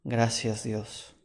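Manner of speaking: soft, hushed gratitude, fading away; tearful thanks. A narrator's reading. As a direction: quietly thank God, moved. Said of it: "Con lágrimas en los ojos". (agradecimiento quedo, con lágrimas en los ojos)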